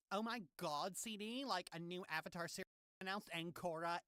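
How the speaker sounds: dish the gossip. Shown as a demonstration. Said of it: "Got the gossip voice down so well".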